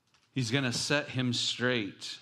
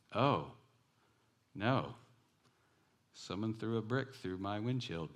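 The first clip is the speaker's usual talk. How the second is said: robotic; 3 dB quieter than usual. Retold or imitated. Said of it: "Just like that, very robotic".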